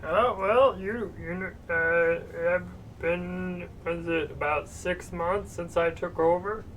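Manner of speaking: quiet gnome with Romano whine; Ray Romano voice. Acted. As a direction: mumble as a gnome shopkeeper. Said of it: "new arcane bubble gum that changes your voice".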